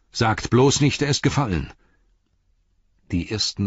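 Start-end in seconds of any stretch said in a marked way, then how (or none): 0.1-1.7 high, alarmed plea; dismayed cry. A narrator's reading. Beregond fearing Faramir has fallen, dismayed high cry. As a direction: cry out, dreading the answer. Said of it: "rief Beregond bestürzt".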